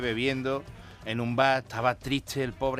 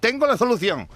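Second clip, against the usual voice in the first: louder, higher doctor voice; doctor, rising glee; 8 semitones higher, 6 dB louder than usual. Acted. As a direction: announce the fix with relish. Doctor's third reply, louder. (el médico, más alto y con sorna)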